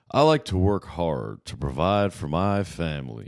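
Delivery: slow, folksy farmer voice; drawn-out hard-working farmer. Shown as a demonstration. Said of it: "That's my farmer voice".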